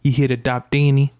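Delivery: lightly imitated Brooklyn vet; a hint of mobster Brooklyn; mobster-like Brooklyn accent. Vet checks which cat they want, light Brooklyn mobster. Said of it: "sounds like he's in the mob".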